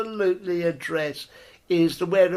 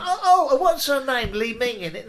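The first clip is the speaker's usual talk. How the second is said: laughing high self; 6 semitones higher than usual. Retold or imitated. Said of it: "I'm like".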